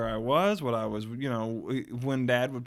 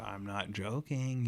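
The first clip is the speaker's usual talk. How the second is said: sly low aside; 3 semitones lower, 8 dB quieter, slower than usual. Retold or imitated. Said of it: "wink at me and go".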